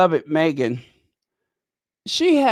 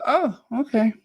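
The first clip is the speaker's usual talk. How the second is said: whispered okay; 8 semitones higher than usual. Retold or imitated. Stranger agrees, surprised.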